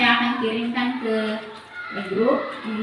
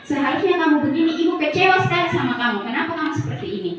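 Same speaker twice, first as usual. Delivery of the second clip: fast, higher disappointed scolding; guilt-tripping lecture; 4 semitones higher, much faster than usual. Shown as a demonstration. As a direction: lay on the guilt quickly. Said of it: "berceramah dan mengatakan".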